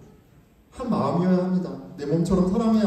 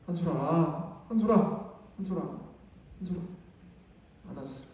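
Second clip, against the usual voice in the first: tender soothing; 7 dB quieter than usual. Retold or imitated. Father comforting child, hugging.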